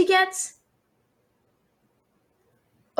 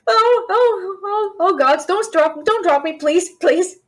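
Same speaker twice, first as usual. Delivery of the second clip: frightened pleading; 3 semitones higher than usual. Real, not acted. Dragon carrying her through the air.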